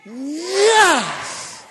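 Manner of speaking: sharp loud yes; crowd-style shout. Real, not acted. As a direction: answer the call with a cry. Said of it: "Are you ready?".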